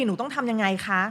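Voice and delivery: lightly voiced student seeking advice; pleading student. Acting student asking teacher for advice.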